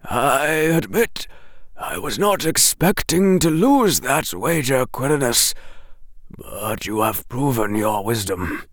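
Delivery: gentle headmaster conceding a wager; Dumbledore. Acted.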